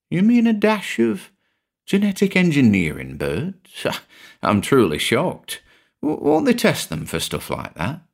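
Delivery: high, mock shocked; amused surprise. A narrator's reading. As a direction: play the shock with a laugh.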